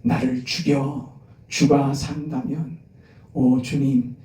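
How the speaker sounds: slow, devout prayer to God; slow earnest prayer. Acted. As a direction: pray it slowly, from the heart. Preacher voices a prayer.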